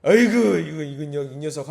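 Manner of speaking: loud fond groan, then easing down; imitated softening father. Angry dad giving in to his daughter, fond exasperation. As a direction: let mock exasperation melt into fond scolding. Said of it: "그 화를 누그러뜨리고".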